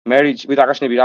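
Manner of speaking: put-on slow, careful Bengali-accented English; neat Bengali English. Showing a critic how Bengalis speak English, slow careful Bengali-accented English. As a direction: lay out each word like a proud Bengali speaker. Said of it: "আমরা সুন্দর করে বলি".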